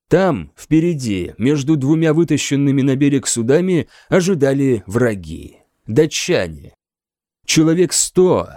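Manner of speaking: ordinary delivery, nothing marked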